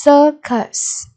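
"Circus" stressed on CIR; stress on first syllable. Shown as a demonstration. Teacher modelling vocabulary for pupils, "Circus" stressed up front. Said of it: "nhấn âm tiết số một".

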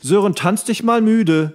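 put-on sing-song it like a mum calling her kid; mock mother. Joking about what a mother tells her child, slow mock call. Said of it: "was sagt denn die Mutter".

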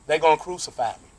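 a lightly voiced Jesus warning his friends, rising toward an outcry. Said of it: "Jesus turns around and says".

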